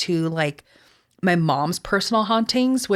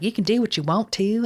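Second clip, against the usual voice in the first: imitated sister's Southern accent; 3 semitones higher than usual. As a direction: stretch the vowels in a Southern twang. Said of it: "she talks like".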